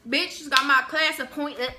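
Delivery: high, loud smug brag; hammed-up bragging voice; cocky boast. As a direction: gloat like you nailed it. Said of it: "I was like".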